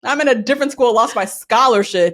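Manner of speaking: imitated telling-off, flaring up in bursts; hammed-up scolding of a dumbass; mock indignation. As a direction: act out her outrage, half amused. Acting out Keisha's angry confrontation.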